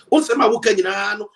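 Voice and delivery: loud insistent repetition of "Unsema wo kanyina". Real, not acted. Repeats the phrase, louder the second time.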